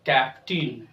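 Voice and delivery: low falling "कैप्टन" as "kaptin"; model answer. Shown as a demonstration. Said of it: "क्या पढ़ते हैं".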